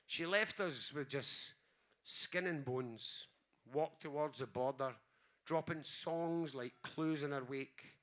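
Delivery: slow, measured poetry reading with long pauses; poem reading. Acted. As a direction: let each line land, unhurried and tender. Reads own poem aloud.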